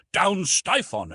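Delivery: high, slow rallying cry; great shout. A narrator's reading. Troops shouting at both ends after trumpets, high shout. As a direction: call out a high battle cry. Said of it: "there were great shouts of".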